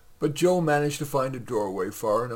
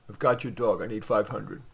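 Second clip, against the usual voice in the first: flat; 3 dB louder than usual. Acted.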